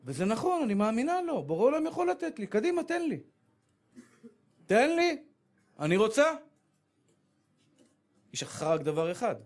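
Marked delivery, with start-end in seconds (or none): 1.4-6.3 high, pushy pleading to God; eager demanding girl. Acted. Young woman eagerly demanding a husband from God.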